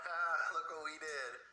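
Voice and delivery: drawn-out, gloating mock laugh; imitation of laughing plotters. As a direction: slowly crow it, imitating smug schemers. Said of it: "While they're laughing, going".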